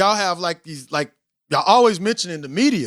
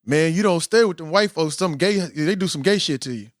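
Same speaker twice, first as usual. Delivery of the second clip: retold saying; 5 semitones lower than usual. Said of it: "this is what we used to say".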